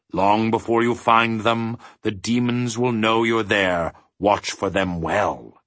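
measured warning slowing on "Watch for them well"; grave, emphatic caution. A narrator's reading. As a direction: weigh each word of the warning. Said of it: "he emphasized".

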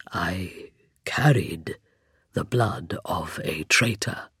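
low, very slow hollow whisper; skeleton voice. A narrator's reading. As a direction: rasp it out of an empty skull. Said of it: "the hollow timbre of his voice".

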